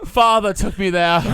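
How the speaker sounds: put-on slow old Hollywood star voice; a dramatic, half-laughing transatlantic lilt; transatlantic accent. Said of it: "some transatlantic accent".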